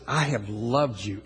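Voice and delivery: low, slow, measured words; solemn tender declaration. Retold or imitated. God's declaration, repeated.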